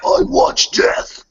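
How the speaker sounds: creepy whisper. Pretend. Spooky intro line.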